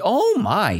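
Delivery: high, startled-sounding exclamation; exclaimed. Acted. Teacher voicing the old lady's proclamation, exclaimed. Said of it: "she proclaimed".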